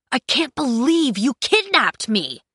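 high, outraged outburst; angry yell. A narrator's reading. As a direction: yell it in disbelief. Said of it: "Kai yelled".

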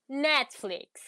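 "Netflix" slowed, in an English accent. Shown as a demonstration. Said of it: "Com aquele sotaque inglês". ("Netflix" com sotaque inglês, devagar)

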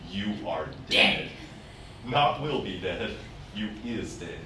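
mock divine verdict. God voiced in retold dream.

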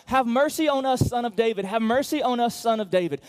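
shouted high and loud; "Have mercy on us" yelled out; loud cry. Acted. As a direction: cry out desperately for help. Same quote shouted.

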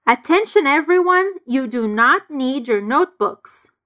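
"Attention everyone" called out, then a slow "you do not need"; emphatic not. Shown as a demonstration. Teacher announcing to the class, stressing not. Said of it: "ele quis enfatizar o not".

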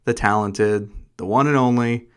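polished host introduction; mild radio host delivery; podcaster voice. Acted. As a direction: introduce the guest like a show host. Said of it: "you have your podcaster voice on".

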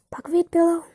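high, disbelieving question on "pillow"; incredulous echo. Acted. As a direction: repeat it back in disbelief. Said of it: "Bess echoed".

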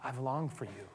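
sorrowful Jesus. Retold or imitated. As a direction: mourn for Jerusalem like a longing parent. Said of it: "he says".

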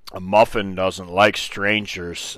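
slow, drawn-out retold line; slow, deliberate quote; retold uncle's pronouncement. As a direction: imitate the uncle, spacing the words out slowly. Uncle repeats his odd excuse.

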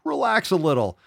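high, loud falling mimicry; mock coaxing. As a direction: sing out the condescending advice mockingly. Mimics what never to say.

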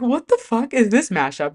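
high-pitched, incredulous retelling; baffled outburst. Retold or imitated. Fan retells her first reaction to the pairing, baffled.

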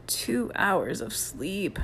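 slow, drawn-out tired moan. A narrator's reading. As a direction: moan it out, worn out. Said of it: "moaned Mike".

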